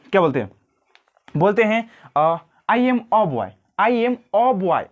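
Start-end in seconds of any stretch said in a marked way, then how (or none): 2.7-4.8 put-on "a" in "I am a boy" as a short neutral uh. Shown as a demonstration. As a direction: say "a" lightly like uh. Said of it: "हम लोग कहते हैं ना".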